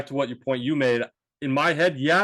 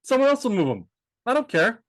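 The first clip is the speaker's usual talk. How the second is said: higher-pitched imitation of a fed-up rant; retold cashier's rant; 7 semitones higher than usual. Cashier complaining to a customer about the carts, imitated rant. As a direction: mimic someone refusing to care. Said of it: "ranting to me quietly".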